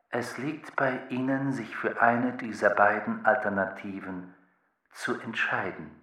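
lightly voiced machine with even pitch; formal, measured machine advice; thinking machine, impassive. (leicht angedeutete, sachliche Maschinenstimme)

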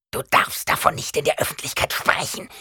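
gehauchtes, entsetztes Zischen; entsetzt gezischt. A narrator's reading. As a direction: panisch zischende Greisin. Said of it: "zischte die alte Frau entsetzt". (alte Frau zischt Paul entsetzt zu)

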